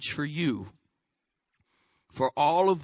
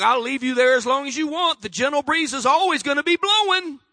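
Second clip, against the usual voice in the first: lightly voiced patient God; mild, steady voice of God; voicing God gently; a hint of God speaking; 8 semitones higher, 6 dB louder than usual. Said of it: "He's like".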